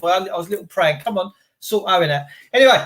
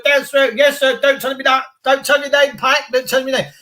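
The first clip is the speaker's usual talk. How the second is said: slightly higher, lightly acted parade-ground patter; mock drill exchange; 5 semitones higher than usual. Imitating police square bashing, mock military patter. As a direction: rattle off drill replies in a light impression.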